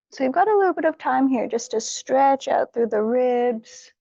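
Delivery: unhurried yoga-teacher guidance with long pauses; guided meditation. Real, not acted. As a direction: gently talk them through each stretch, leaving room to breathe. Leads warm-up for meditation.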